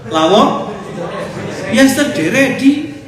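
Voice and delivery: put-on the words Lawang ya sedere di said high, loud and slow in a thick regional accent; mock regional accent. An ustaz repeats the accented phrase for his congregation. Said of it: "Itu namanya aksen".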